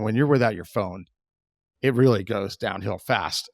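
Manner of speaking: ordinary talk, nothing marked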